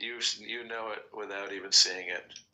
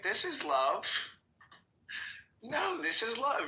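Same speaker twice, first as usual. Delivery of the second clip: Kinison impression; 11 semitones higher, slower than usual. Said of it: "he's like".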